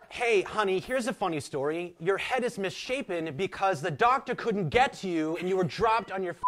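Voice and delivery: high, mock Southern storytelling to a child; a hammed-up Southern mother teasing her kid; mocking Southern mom. Mother telling her child a story, in a high mock Southern voice. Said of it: "here's a story that you'd be telling your soon-to-be child".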